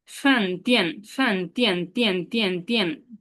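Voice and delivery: ফ্যান and তিয়ান clipped with a sharp falling tone; fourth tone. Shown as a demonstration. Teacher to class, modelling fourth-tone তিয়ান. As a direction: drop তিয়ান hard like a fourth tone. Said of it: "fourth টোনে উচ্চারণটা এরকম করবো".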